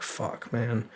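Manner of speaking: whispered, breathy "Fuck," then a soft "man"; whispered curse. Retold or imitated. Hearing the recruiter's warning, a whispered defeated curse. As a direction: let it out under your breath, crushed. Deflated at the bad news.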